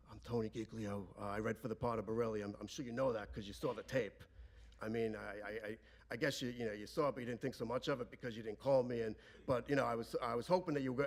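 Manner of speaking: soft, halting, deferential little speech; rehearsed supplicant. Retold or imitated. Father addressing De Niro with a rehearsed plea, deferential. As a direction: lightly mimic a nervous man reciting a rehearsed appeal. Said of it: "like Luca Brasi outside of the wedding".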